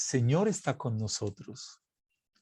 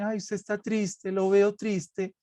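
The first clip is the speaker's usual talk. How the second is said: higher, lightly imitated fussing; mock concern; 4 semitones higher than usual. Priest imitating people who say he looks sad, mock concern. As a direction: mimic a worried busybody, mildly.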